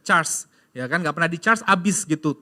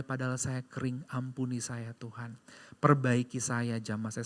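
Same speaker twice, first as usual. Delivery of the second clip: retold soft prayer; 3 semitones lower, 5 dB quieter than usual. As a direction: pray it quietly, broken and humble. Retold prayer after the phone call. (doa pengakuan yang pelan dan lirih)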